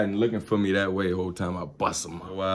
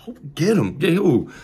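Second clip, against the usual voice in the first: panicked; 9 semitones higher, 4 dB louder than usual. Retold or imitated. Panicked while being chased.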